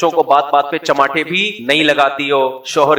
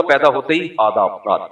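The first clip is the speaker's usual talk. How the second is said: mock polite newborn; 4 semitones lower than usual. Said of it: "وہ ایسا style مار رہا تھا".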